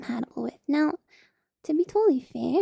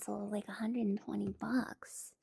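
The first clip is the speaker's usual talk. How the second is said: whispering; 3 semitones lower, 10 dB quieter than usual. Real, not acted.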